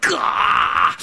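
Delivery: sharp unvoiced gasp of pain. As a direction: gasp as a paper cut is jabbed. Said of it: "I'm like".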